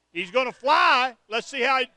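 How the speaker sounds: excited call. Real, not acted. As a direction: call the dive as it happens. Live wrestling play-by-play.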